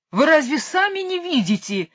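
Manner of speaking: высоко и громко, на вопле; завопить в отчаянии; завопил. A narrator's reading. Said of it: "завопил король". (громкий возмущённый вопль)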